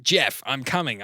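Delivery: drawn-out, understated Ayoade voice; lightly imitating Richard Ayoade; Richard Ayoade impression. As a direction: slowly deliver a sitcom line as Ayoade. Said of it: "What's a line from that?".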